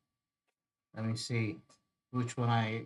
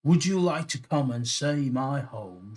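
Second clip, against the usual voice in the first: higher, louder mermaid in attempted Irish; raised, lilting character question; mermaid's invitation; 5 semitones higher, 8 dB louder than usual. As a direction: invite in a hammed-up Irish accent. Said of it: "she asked".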